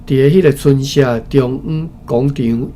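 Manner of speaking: ordinary talk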